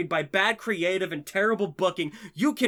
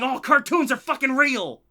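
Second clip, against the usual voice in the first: put-on childlike thrill; 3 semitones higher, 4 dB louder than usual. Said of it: "looking wistfully at the T V going".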